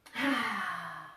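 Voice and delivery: long breathy sigh out; yoga exhale; audible exhale. Shown as a demonstration.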